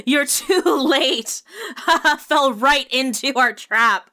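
cackling high between words; laughing. Acted. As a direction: laugh it out, crazed. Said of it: "laughing and saying".

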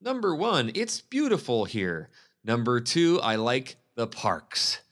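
mock the boring agent reading a bland list, slowly; mocking bland pros and cons. Mocking other agents' pros and cons videos in a dull, slow list. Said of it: "they're very, like".

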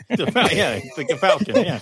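laughing while talking; chuckling through the words. Real, not acted. Laughing at the hood story.

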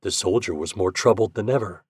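ordinary delivery, nothing marked

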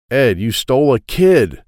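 loud alarmed outburst; shocked. Acted. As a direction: blurt it in horror. Felipe discovers the child.

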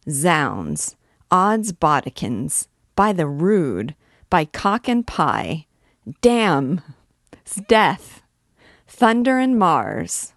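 a captain roaring oaths in the street; loud ringing oaths. Acted. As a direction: bellow the oaths as they build. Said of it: "a loud ringing voice pronounce a terrible string of oaths".

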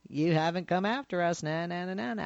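singsong playground teasing, lightly done; mock taunt. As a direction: imitate a childish na-na taunt. Mock taunt at a terrorist organization.

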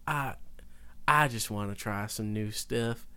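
slow imitation of a Southern accent; imitated Southern accent. Classmate defending his voiceover choice, mimicked Southern accent. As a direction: put on a classmate's Southern drawl. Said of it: "You're doing it now".

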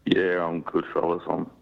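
sick, croaky voice; hoarse voice. Real, not acted. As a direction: voice worn out from flu. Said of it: "a funny sounding voice at the moment".

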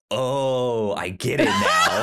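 loud laughing eureka; laughing shout of realization. Retold or imitated. Finally understanding the twist, loud laughing cry. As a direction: burst out laughing as it clicks.

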